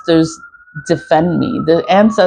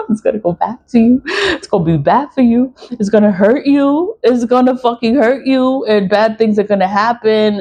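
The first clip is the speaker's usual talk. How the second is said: gleeful warning; 4 semitones higher than usual. Real, not acted. Laughing threat at attackers.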